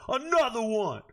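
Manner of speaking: punched catchphrase, stretched a little; lightly borrowed hype-man shout-out. Retold or imitated. Streamer echoing a hype catchphrase after another draft pick, lightly imitating. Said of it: "I feel like D J Khaled out here".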